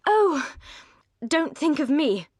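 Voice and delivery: bright, lifted plea not to worry about her; spirited earnestness. A narrator's reading. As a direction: brush his concern aside eagerly. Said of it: "with spirited earnestness".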